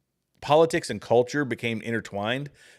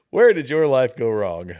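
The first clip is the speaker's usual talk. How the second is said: slow and louder, leaning on it; emphatic mock question; 7 dB louder than usual. Mocking a veteran politician, slow and louder. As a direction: hammer the question home at him.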